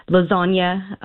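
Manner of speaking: lasagna said the Italian way, a light Italian accent on the word. Real, not acted. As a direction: say lasagna as loz-AHN-ya with a nasal vowel, half-hearted Italian. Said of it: "I have a horrible Italian accent".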